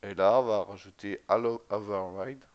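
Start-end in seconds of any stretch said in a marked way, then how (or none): 1.3-2.4 French-tinged attempt at an English accent. Real, not acted. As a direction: say the English term with proud, imperfect English pronunciation. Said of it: "J'ai un bon accent anglais". (accent anglais approximatif)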